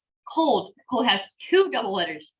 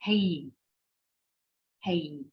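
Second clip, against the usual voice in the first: said fast, joined; 4 dB quieter, much slower than usual. Shown as a demonstration. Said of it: "if you say it fast".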